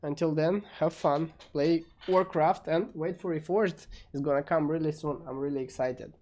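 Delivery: muffled, as if behind a hand. Real, not acted. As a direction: speak with a hand over the mouth. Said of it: "my voice is kinda muffled".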